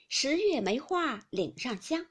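slow, slightly lifted verse line; verse recitation. A narrator's reading. Aunt capping the next tile with a rhyme, slow recitation. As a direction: measure out the rhyme unhurriedly.

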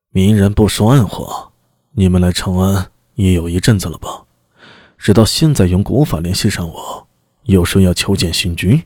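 low, probing lord's voice; suspicious demon lord. Acted. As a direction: question him low and suspicious. Demon lord doubts envoy.

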